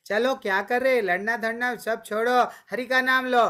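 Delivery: rally the animals to chant; summoning the wild animals to kirtan; calling to animals. Retold or imitated. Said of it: "जानवर को भी क्या बोलते थे".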